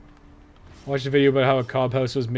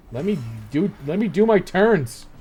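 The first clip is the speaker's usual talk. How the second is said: loud, higher, frustrated demand; exasperated protest; 5 semitones higher, 4 dB louder than usual. Real, not acted. Player demands his turn from the game, loud exasperation. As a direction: raise your voice in exasperation.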